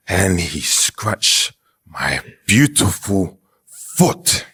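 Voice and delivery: slow, drawn-out dramatic telling; milk the tragedy slowly; slow, melodramatic complaint about a scratched foot. Real, not acted. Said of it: "Why did it be so dramatic".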